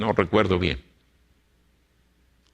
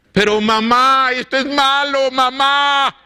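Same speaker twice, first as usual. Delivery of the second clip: put-on pleading boy; 13 semitones higher, slower than usual. Marcos begging his mother to give up the records, high pleading voice. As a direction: beg your mother like a young convert.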